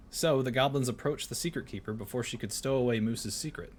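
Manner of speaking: storybook reading voice; story narration. Acted. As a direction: read it like a bedtime tale.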